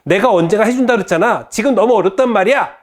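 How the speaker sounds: fast, high, loud scolding; angry mother. Acted. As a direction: blow up at a nagging daughter. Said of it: "예, 화를 냅니다".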